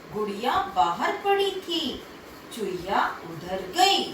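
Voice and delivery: put-on lively storytelling voice for kids; story for children. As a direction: read it out like a bedtime tale. (बच्चों को कहानी सुनाते हुए जीवंत आवाज़ में)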